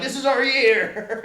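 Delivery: high, slow and hopeful; mock the fans' big dream, stretched out; drawn-out hopeful cheer; hopeful fans. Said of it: "They're like".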